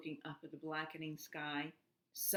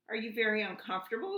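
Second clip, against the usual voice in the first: fast, higher and louder; screaming over the storm; 5 semitones higher, 5 dB louder, much faster than usual. A narrator's reading. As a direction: shout it above the storm. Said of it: "Elmer screamed above the noise".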